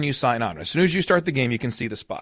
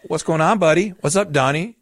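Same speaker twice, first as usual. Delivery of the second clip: lightly voiced higher-pitched mom; mom filming; 5 semitones higher, 3 dB louder than usual. Mom videoing her crying kid, mock chirpy questioning. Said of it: "she goes".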